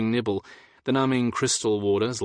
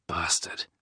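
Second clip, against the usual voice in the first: growled; 4 semitones lower, 5 dB quieter than usual. Acted. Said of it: "I growled".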